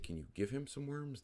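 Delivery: high, bright fake enthusiasm; mock eager. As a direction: gush it like an eager kid. Mock-eager request to scammer.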